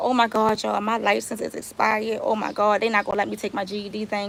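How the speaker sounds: tearful crying. Retelling finding her license expired at the test, imitating her own crying. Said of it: "So I start crying like".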